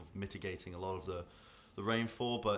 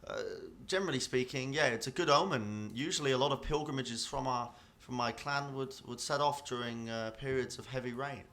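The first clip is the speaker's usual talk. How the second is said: lightly voiced friendly dwarf, pitched up; river dwarf; 4 semitones higher, 5 dB louder than usual. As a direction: answer as a dwarf explaining clan customs, slightly higher.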